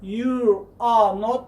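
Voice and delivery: very slow, each word fully pronounced; full slow form. Shown as a demonstration. Teacher showing the full form, very slow. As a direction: draw every word out for the class. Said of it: "با پورگی تلفظ کرده استادم".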